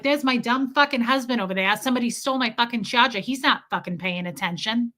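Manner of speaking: imitated New York woman griping; New York accent. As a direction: rattle it off as a New York complainer. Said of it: "the New York lady".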